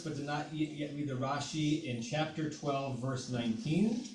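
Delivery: muffled, distant mic sound; like talking from inside a barrel; bottom of a barrel. Real, not acted. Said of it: "you sound like you're at the bottom of a barrel".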